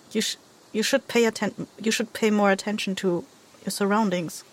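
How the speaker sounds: soft, hesitant in-character voice; halting traveller. Acted. Traveller cautions their rescuer, softly and haltingly.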